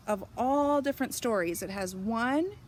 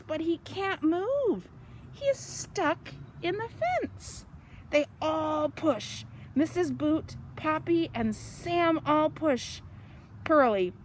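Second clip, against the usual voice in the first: lively, sing-song storybook reading; bright storytime read-aloud; reading to children; 3 semitones higher than usual. A narrator's reading. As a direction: read it out like it's story time for little ones. Reads picture book to children.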